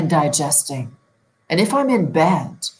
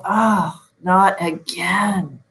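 frustrated groan; 2 semitones higher, much slower than usual. Retold or imitated. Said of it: "Am I saying".

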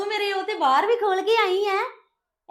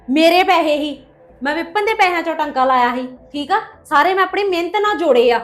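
loud, defiant confession thrown in her face; raised voice, daring her; angry defiant outburst; 3 semitones lower, 4 dB louder than usual. Acted. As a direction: yell it like you dare her to act.

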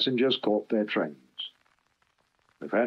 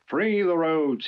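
growled slogan; 7 semitones higher than usual. Acted. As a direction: bark out the slogan slowly. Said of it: "he growled".

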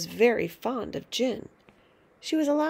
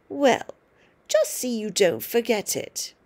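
screechy grandma; 4 dB louder than usual. Acted. Grandma calls from next room.

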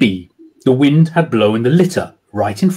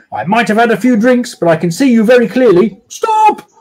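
tipsy warning; 7 semitones higher than usual. A narrator's reading. Drunk sergeant warns the socks.

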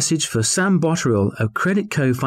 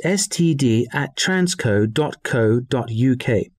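slow dictation; slower than usual. Acted. Dictating an email address.

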